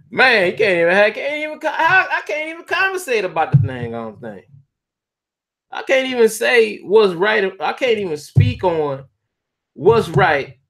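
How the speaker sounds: high-pitched, exasperated laughing protest; real laughter pushing the voice way up high; cracking up. Real, not acted. Streamer gives up on getting the pronouns right, cracking up.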